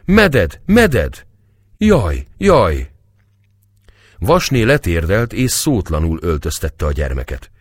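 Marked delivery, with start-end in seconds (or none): 0.1-2.9 put-on high, loud child's wail; mock-sobbing little child calling for help; acted crying. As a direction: wail it in short falling cries. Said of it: "A gyermek erre megint sírva fakadt".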